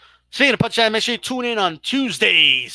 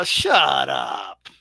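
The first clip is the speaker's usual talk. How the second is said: shut up; 7 semitones lower than usual. Real, not acted. Mock-yelling at chat's claims.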